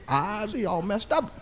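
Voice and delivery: ordinary talk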